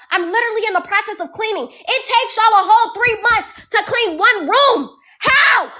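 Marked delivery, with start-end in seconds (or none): 1.7-5.7 yelling. Real, not acted. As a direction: shout it out in real frustration. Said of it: "I'm sorry for yelling".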